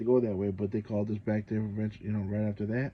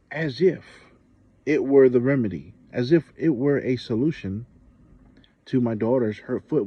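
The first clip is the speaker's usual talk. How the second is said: louder, exasperated disbelief; indignant rant; 2 semitones higher, 9 dB louder than usual. Real, not acted. Venting to viewers about the nurse, louder and exasperated. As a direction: push it out like you can't believe it.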